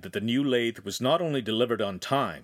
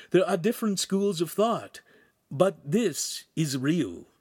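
high, deliberate explanation; raised pitch, measured theorizing; Pan's character voice; 5 semitones higher than usual. Acted.

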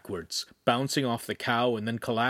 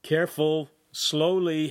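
cautioning; 5 semitones higher, 3 dB louder, slower than usual. A narrator's reading. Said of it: "Handsome cautioned".

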